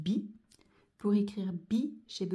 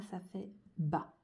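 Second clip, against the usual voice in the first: slow blending; slower than usual. Shown as a demonstration. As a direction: slowly blend ça fait bas. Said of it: "teacher blends letters into syllable".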